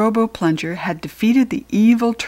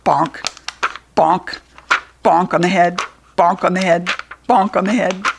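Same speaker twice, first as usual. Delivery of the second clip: sound effects; 2 semitones lower than usual. Acted. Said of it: "Here we go".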